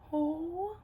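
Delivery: high, tiny hushed voice; overwhelmed. Real, not acted. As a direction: squeak it softly, as if speechless. Overwhelmed by the makeup.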